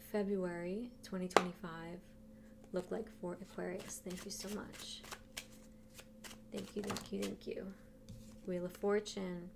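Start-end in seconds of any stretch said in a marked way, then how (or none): 4.1-7.6 quiet thanks. Real, not acted. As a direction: say thanks softly, almost to yourself. Thanking guides under her breath.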